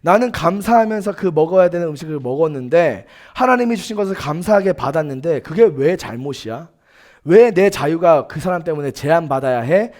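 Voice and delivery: acted, mildly indignant objection; aggrieved protest. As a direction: argue the case as someone unfairly restricted. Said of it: "억울한 마음도 이해가 됩니다".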